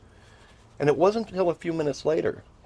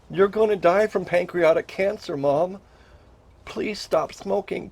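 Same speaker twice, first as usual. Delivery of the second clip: urgent, high-pitched pleading warning, louder in bursts; retold yell; 6 semitones higher, 3 dB louder, slower than usual. Son warning his mom she will die, pleading retold yell. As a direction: beg loudly, as if retelling a desperate yell. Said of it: "And I yelled at her".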